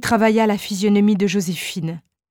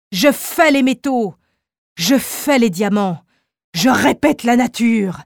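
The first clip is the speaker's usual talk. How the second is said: exclaimed; 3 semitones higher than usual. Acted. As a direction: crow like a man who rivals nature. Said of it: "s'écria-t-il".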